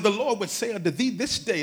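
lightly imitated prophet in archaic English; a hint of mock-solemn prophecy; King James prophesier. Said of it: "they prophesy in King James".

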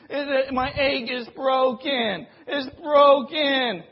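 preacher imitating a complainer, light whiny voice; mock whining. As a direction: whine "woe is me" for sympathy. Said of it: "We could whine and complain".

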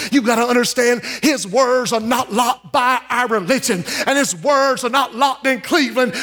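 preacher driving the point home to the church, shouting; preaching climax. Real, not acted. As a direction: build and cry it out to the congregation.

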